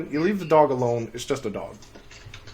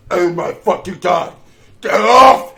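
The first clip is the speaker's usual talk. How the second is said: loud panicked shout, high and louder; panicked yell; 5 semitones higher, 15 dB louder, slower than usual. Retold or imitated. Teacher yelling at a squirrel running up his leg, panicked shout. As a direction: scream it as the squirrel climbs your leg.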